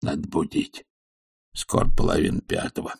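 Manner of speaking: hushed, nearly voiceless muttering; whisper. A narrator's reading. Servant deciding to wake his master, whispered. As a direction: whisper it to yourself. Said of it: "прошептал он".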